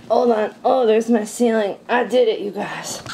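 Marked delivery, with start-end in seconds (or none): 2.4-3.0 whispered aside. Real, not acted. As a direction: drop to a breathy whisper. Triumphant aside.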